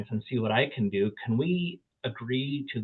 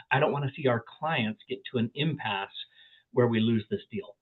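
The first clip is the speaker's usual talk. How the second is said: usual speaking voice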